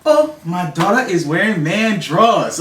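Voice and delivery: put-on slow, loud, high African accent; drawn-out African accent outburst. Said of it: "in a really raw, you know, African accent".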